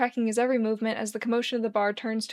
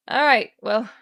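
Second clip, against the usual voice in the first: Charlie voice; 7 dB louder, slower than usual. Acted. Charlie giving up conversation.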